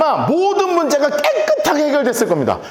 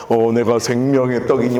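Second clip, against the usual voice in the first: much lower, mocking echo of his claim; sarcastic mimicry; 12 semitones lower than usual. Crowd mimicking Jesus to his face, sarcastic. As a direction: parrot his words scornfully in a low voice. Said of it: "그러니까 빈정되는 거를".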